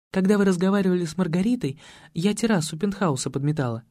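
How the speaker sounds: ordinary talk, nothing marked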